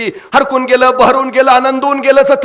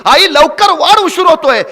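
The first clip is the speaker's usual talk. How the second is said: impatient call; 4 semitones higher, 3 dB louder than usual. Acted. Boy's call grows more impatient.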